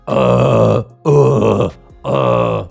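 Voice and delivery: loud buzzing grunts; stuck on a buzzing uh; buzzer sound. Shown as a demonstration. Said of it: "they get stuck on that buzzer sound".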